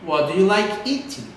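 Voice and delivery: "What do you like eating" dropping at the end; falling question intonation. Shown as a demonstration. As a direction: model "What do you like eating" with a downward final tune. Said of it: "a entonação vai lá pra baixo".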